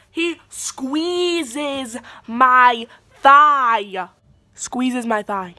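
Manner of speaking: very slow, loud stretched outrage; outraged. Real, not acted. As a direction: drag each word out, appalled. Outraged at the squeeze.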